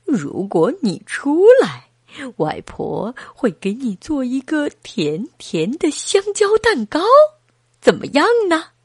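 lightly voiced grandma coaxing; a hint of granny, lifting at the end; grandmother.

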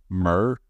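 MIRROR squashed into one drawn-out murr; mangled MIRROR. Real, not acted. Speaker who cannot say it tries, MIRROR run into murr. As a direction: say MIRROR as a single blurred murr. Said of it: "I cannot say mirror".

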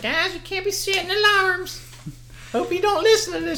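hammed-up boss telling staff off about alarms; boss lecture impression. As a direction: mimic the manager scolding staff. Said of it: "He'd be like".

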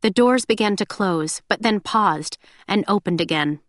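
normal talking voice

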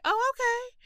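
high mocking "oh, okay"; mock the parents' fake agreement; sarcastic parents. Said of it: "they were like".

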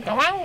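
imitated koel call; bird call. Shown as a demonstration. Showing co-hosts a birdsong, bird call. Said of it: "พี่เล็กลองทำเสียงนกร้องดิ".

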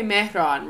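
"Mehran" said the Persian way; Persian pronunciation. Retold or imitated. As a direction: say "Mehran" as a Persian speaker would. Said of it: "Persian way, correctly".

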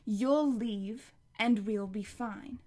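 slow, hard words with fury; furious, slow. Acted. Connor telling grandma to leave, slow fury. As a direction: spit it slowly, angry. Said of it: "fury in his voice".

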